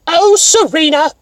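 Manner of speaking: a stretched-out fake-British Eastern accent; upper-class Eastern accent. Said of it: "Eastern accent of, like, you're almost British".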